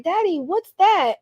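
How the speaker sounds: put-on high, slow child's question; a small kid asking in wonder; little kid voice. Little kid asking daddy in a high voice.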